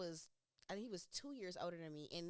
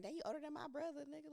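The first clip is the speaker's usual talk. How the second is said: laughing quote; 6 semitones higher, faster than usual. Retold or imitated. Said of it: "So I'm like".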